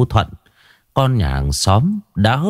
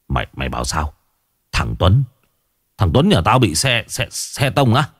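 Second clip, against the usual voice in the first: stunned disbelief. Acted. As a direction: barely get the words out, stunned. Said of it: "giật mình. Ông há hốc mồm".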